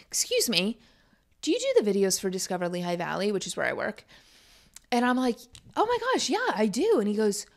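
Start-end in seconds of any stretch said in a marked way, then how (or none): 0.1-3.3 soft, hushed and a bit hurried; shy hushed stranger. Retold or imitated. Stranger in a store shyly asking the video maker, hushed. 5.8-7.0 much higher, thrilled squeal; delighted gush. Retold or imitated. Recognized by a fan in the store, delighted high squeal.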